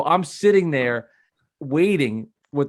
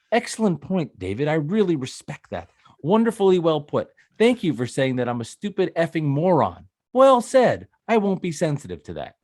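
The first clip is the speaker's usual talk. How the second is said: sarcastic mock politeness; 3 semitones higher than usual. Host mocking a Twitter troll with fake praise, sarcastic. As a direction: gush praise you clearly don't mean. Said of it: "You want me to respond like".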